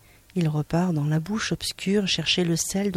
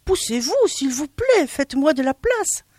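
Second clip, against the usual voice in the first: high, louder plea for room; calling out; 8 semitones higher, 4 dB louder than usual. Acted. Monsieur Dard calling out behind her for room, high plea. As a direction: call out to make room. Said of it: "il cria".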